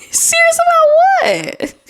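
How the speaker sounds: laughing through the question; breaking up with disbelief. Real, not acted. Host cracking up at a sleep-talk post, laughing.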